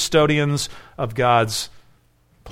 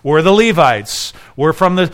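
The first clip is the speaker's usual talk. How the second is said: fast, louder, affronted protest from the priests; indignant temple leaders; 2 semitones higher, 5 dB louder than usual. Retold or imitated. Temple leaders confronting Jesus, indignant and fast. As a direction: bristle like threatened priests defending their turf. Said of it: "they'd be like".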